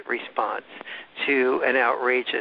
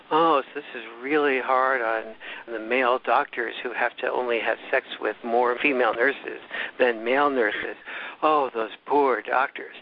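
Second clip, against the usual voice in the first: eye-rolling sarcasm. Retold or imitated. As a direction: imitate a sarcastic interviewer feigning sympathy. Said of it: "she'll roll her eyes and go".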